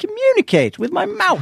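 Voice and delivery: put-on British accent, very high and swooping. Arguing about playing a mute role: imitating a British accent. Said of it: "I like how you're doing the British accent".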